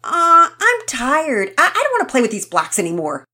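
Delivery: high, loud tired whine; whiny yell. Acted. Rocket yells at the others over the castle, whining. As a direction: yell it like a worn-out kid. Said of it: "Rocket yelled".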